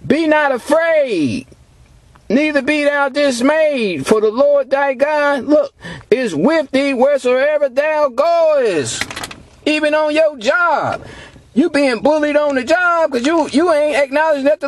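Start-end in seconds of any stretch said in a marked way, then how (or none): 0.0-9.0 slow, measured scripture declamation; preacher reciting scripture slowly; scripture reading. Acted. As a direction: read the verse out deliberately, word by word. Reads scripture aloud to congregation.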